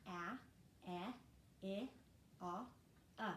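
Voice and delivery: short vowels A, e, I, o, u said slowly one by one; short vowel sounds. Shown as a demonstration. Teacher models short vowel sounds for parents, slow and clear. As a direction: model each short vowel with the jaw dropping. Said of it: "watch me say those short sounds of the vowels".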